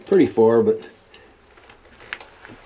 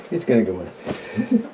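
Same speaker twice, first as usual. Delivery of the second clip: 1 laughing; slower than usual. Real, not acted. Laughing while feeding pipe in.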